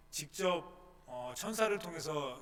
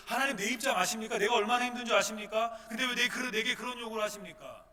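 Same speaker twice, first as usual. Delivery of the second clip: higher, louder indignant questions; aggrieved protest; 6 semitones higher, 7 dB louder than usual. Acted. Believer demanding God understand, indignant and loud.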